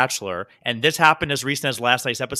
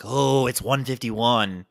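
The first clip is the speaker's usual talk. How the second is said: imitating old reaction; 4 semitones lower, much slower than usual. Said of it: "when one fifty-one was like".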